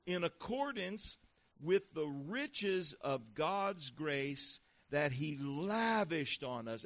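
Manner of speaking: slow, deliberate Bible reading; measured pulpit reading with drawn-out key words; scripture reading. Acted. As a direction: read it out solemnly, phrase by phrase. Reads scripture aloud to congregation.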